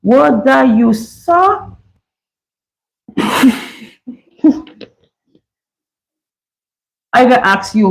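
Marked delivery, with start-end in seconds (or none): 0.0-1.7 Bajan accent, last word pitched high; attempted Bajan accent. Shown as a demonstration. Host tries reading a Bajan phrase, attempted Bajan accent. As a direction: have a go at Bajan, lifting the ending. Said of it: "if that's Bajan".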